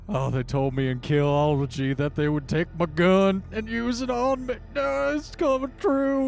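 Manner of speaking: high, loud, panicking wail; panicked cop. Acted. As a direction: shriek as his fear comes true.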